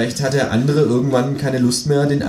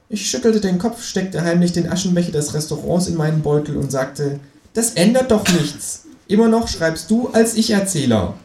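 higher kangaroo voice telling the story; kangaroo narrating; 6 semitones higher than usual. Acted. Kangaroo as the new narrator, higher voice. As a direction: take over the narration as the kangaroo.

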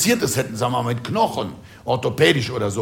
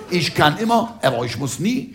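proud rooster; 4 semitones higher than usual. Acted. Comedian quoting the proud rooster's old Rhenish wisdom, lightly proud. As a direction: proclaim it lightly as a rooster's saying. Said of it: "spricht der stolze Hahn".

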